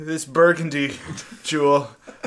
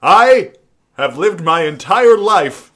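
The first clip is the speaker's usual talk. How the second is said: news reader; 4 dB louder than usual. Acted. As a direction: read it like a grave anchor. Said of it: "Do the voices".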